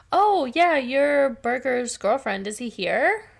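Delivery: slow, dopey bro voice; dopey guy voice. Retold or imitated. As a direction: play it like a clueless bro. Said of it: "the one guy is like".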